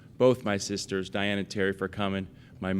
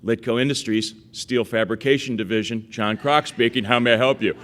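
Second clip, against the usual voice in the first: louder, formal phone-answering voice; phone greeting; 2 semitones higher, 5 dB louder than usual. Retold or imitated. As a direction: announce it like a small-shop owner on the line. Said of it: "he'd go".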